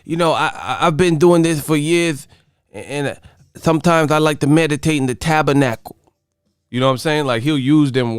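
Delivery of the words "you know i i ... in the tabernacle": lightly imitated lisping boxer; halting, big words in a put-on boxer voice; Mike Tyson. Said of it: "'Cause Mike Tyson, he got that, that voice".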